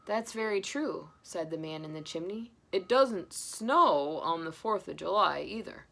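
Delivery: slow, deliberate jolly reply; Santa. Acted. Santa calmly answering Grandpa, amused. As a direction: drawl it out knowingly.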